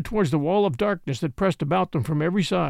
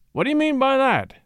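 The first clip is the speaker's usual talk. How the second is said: much higher, pressing challenge; sharp demand; 8 semitones higher than usual. A narrator's reading. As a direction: push back hard, wanting an answer now. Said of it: "Bill demanded".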